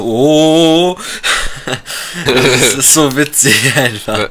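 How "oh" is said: stiff, higher robotic "oh". Retold or imitated. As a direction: mechanical robot-style exclamation. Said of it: "wenn du das mit Roboterstimme machst".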